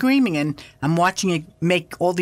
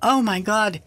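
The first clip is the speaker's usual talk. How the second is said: retold scream; 8 semitones higher than usual. Wife spotting the UFO, high excited scream. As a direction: shriek it like seeing a UFO overhead. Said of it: "And I'm screaming".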